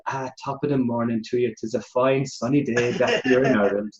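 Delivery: put-on Irish accent. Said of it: "this is my Irish accent".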